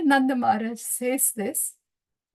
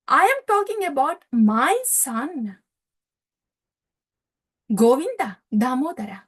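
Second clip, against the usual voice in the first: insistent father. Retold or imitated. Nanda insists on his son.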